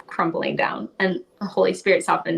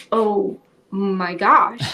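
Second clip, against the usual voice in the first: awed realization; much slower than usual. Retold or imitated. Moment the idea clicked.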